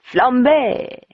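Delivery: a butler's grand announcement; announcing. Acted. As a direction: present the dessert with a flourish. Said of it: "he announced".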